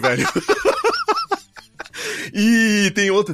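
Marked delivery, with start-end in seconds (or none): 0.3-1.4 high burst of laughter. Real, not acted.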